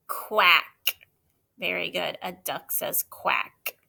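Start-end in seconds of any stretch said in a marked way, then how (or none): 1.6-3.8 whispering. Real, not acted. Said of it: "teacher aside to child".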